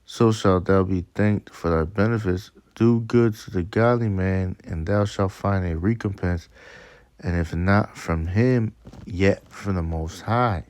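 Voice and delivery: slow, measured reading of verse; scripture reading. Acted. Preacher reading Sirach to his listeners, slow scripture reading. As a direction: read it out deliberately, phrase by phrase.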